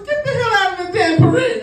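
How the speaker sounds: very high, loud shouted order; mock furious officer. Officer ejecting parade crashers, furious high shout. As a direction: throw them out at full yell.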